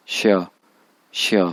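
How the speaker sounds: श्या with a short falling tone; fourth tone demo. Shown as a demonstration. Teacher demonstrating श्या in the fourth tone. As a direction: drop श्या quickly. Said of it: "four tone के साथ".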